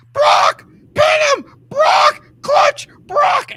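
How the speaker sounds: high shrill yelling of spot calls; imitated screaming. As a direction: scream the calls like a manager at ringside. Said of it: "Paul Heyman is screaming out to Brock the spots".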